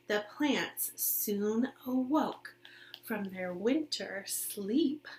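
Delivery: storybook reading. Acted. Reading picture book to children.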